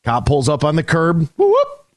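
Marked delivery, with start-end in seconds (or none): 1.4-1.9 high, quick whoop-whoop like a cop car siren; siren imitation. Narrating the cop pulling up, a siren imitation. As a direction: mimic the squad car's siren chirp.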